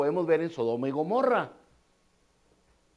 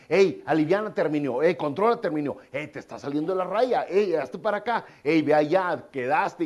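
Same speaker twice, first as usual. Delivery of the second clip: lightly voiced Holy Spirit, firm nudges; voice of conscience; 4 dB louder than usual. Preacher voicing the Spirit correcting believers: firm prodding. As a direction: correct them like a gentle inner coach, a bit louder. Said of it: "nos empieza a decir".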